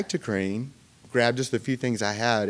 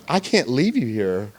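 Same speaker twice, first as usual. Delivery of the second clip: mildly hammed-up tearful plea; retold tearful protest; 3 semitones higher, 4 dB louder than usual. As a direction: imitate a mom upset at leaving. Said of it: "She's just, like, bawling".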